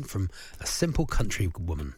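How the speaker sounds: put-on Devonshire country voice; Devonshire accent. Presenter guessing the sexiest voice, Devonshire accent. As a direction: ham up a Devonshire accent lightly. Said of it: "Devonshire voice".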